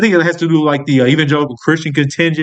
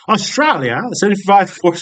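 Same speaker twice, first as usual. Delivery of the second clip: badly faked Australian accent; failed Australian accent. Retrying the country's poll numbers, in a failed Australian accent. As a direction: have a clumsy go at Australian. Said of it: "I can't do an Australian accent".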